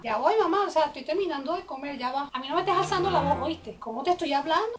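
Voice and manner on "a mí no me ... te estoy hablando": sharp, fast rebuke, rising to louder; scolding mother. Acted. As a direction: put the kid in her place.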